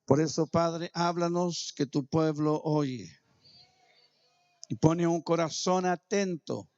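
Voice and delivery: a hint of preaching prayer; fervent prayer. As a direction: pray over the church with conviction. Opening prayer over congregation.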